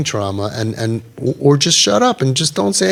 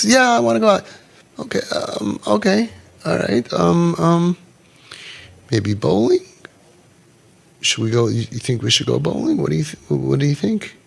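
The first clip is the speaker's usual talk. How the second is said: halting stutter; 3 semitones higher than usual. Retold or imitated. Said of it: "Develop a stutter".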